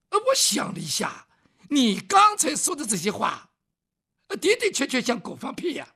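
put-on southern-accented scholar. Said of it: "说话带点南方味儿".

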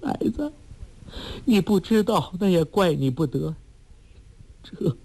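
tearful mother revealing his real father; crying mother. Acted. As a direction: cry the words out, tears breaking through. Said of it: "哭道".

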